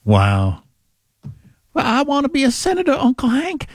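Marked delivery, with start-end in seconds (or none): 1.7-3.7 high mock Southern cartoon voice; quick, high-pitched teasing impression of a naive character; Luann from King of the Hill. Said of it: "she sounds like Luann from King of the Hill".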